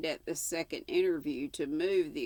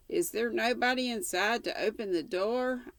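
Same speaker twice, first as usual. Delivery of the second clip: higher, raised call to the yard; hallooing; 6 semitones higher than usual. Acted. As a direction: call out across the yard to the servant. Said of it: "I hallooed responsively".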